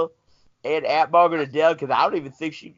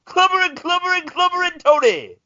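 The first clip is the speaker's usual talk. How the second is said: very high, loud shouted chant; loud wrestling callout; 4 dB louder than usual. Acted. Mock wrestling move callout.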